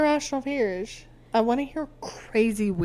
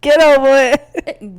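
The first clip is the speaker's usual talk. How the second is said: put-on higher, much louder baby-like squeal; squeaky baby voice, by accident; 3 semitones higher, 15 dB louder than usual. Shown as a demonstration. Host squeaks the catchphrase like a baby. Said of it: "I sound like a baby".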